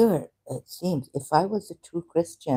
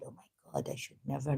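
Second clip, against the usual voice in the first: mild whisper; 13 dB quieter, much faster than usual. Retold or imitated. Retelling her own shocked realization.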